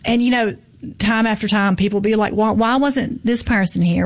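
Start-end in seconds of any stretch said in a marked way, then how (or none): 2.3-4.1 catty. Retold or imitated. Festival organiser mimics people questioning the lineup, catty. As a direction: imitate a catty complainer, lightly stretched. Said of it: "didn't mean to say it in that catty voice".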